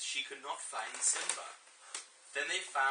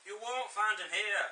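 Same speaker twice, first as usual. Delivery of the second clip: high put-on Yorkshire old baboon; Yorkshire-accented wise baboon; Yorkshire Rafiki; 7 semitones higher, 4 dB louder than usual. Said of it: "what voice you're gonna do for Rafiki".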